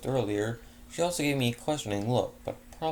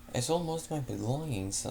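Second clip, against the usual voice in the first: Ozzy's line said a little higher in the pony lady's voice; wrong voice for the narrator's human character; slipping into Fleur's voice; 4 semitones higher than usual. Real, not acted. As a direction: accidentally drift into the mare's gracious voice. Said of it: "I just went to Fleur voice".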